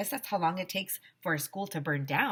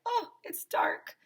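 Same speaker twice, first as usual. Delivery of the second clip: whisper; slower than usual. Retold or imitated. Reacting to lights going out.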